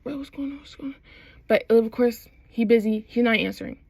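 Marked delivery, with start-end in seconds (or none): 0.0-1.0 retold worried.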